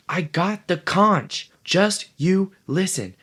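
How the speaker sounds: Piggy loses his temper and yells; lost temper. Acted. Piggy loses his temper with the boys, shouting high and slow. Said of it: "Piggy lost his temper".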